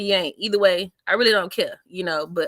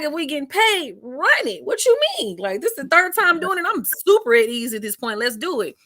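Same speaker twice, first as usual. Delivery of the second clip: high, loud, hyped-up agreement; hyped yes; 8 semitones higher, 4 dB louder than usual. Retold or imitated. Comedian telling promoters she's ready for another show, hyped and loud. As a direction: fire it out like you can't wait to go back on stage.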